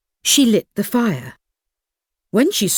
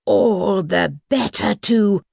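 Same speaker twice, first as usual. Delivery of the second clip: menacing wolf. Acted. Wolf reveals himself.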